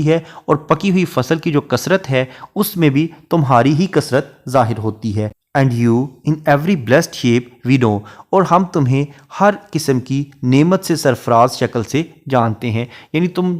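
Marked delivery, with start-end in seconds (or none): 5.6-8.0 slow, measured reading of a verse line; poetry recitation. Shown as a demonstration. Teacher reciting a Shakespeare sonnet line to students, slow and measured. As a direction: read each word of the sonnet out slowly.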